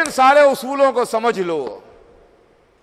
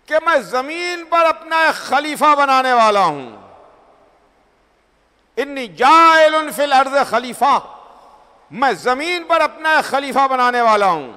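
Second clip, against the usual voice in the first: lightly raised, ringing proclamation; resounding divine voice; 3 semitones higher than usual. Acted. God announces a vicegerent to the angels, resounding proclamation. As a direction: declare it as a voice breaking through worship. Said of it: "توڑتی ہوئی ایک آواز گونجی".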